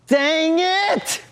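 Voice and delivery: drawn-out dismayed cry of dang it; dismayed outburst. Real, not acted. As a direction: let it sink into disappointment. Finds the cinnamon.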